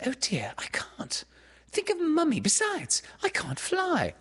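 put-on high, fretful girl's voice; reluctant Wendy. A narrator's reading. Wendy refusing Peter's invitation, high and fretful. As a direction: protest in a high, worried little voice.

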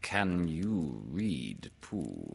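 slow, tentative question; understated worried hesitation; a little anxious. Acted. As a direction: ask very slowly, dropping low on the name. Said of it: "he asked a little anxiously".

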